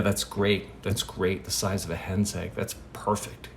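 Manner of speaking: soft, low murmured feedback; gentle listener's aside, acted; quiet approval. Peter quietly approves the draft parable.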